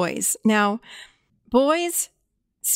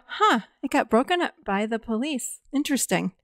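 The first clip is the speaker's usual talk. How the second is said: softer, even mirroring tone; calm reflective echo; 4 dB quieter than usual. Shown as a demonstration. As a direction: echo it back quietly and calmly. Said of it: "That's how I said it".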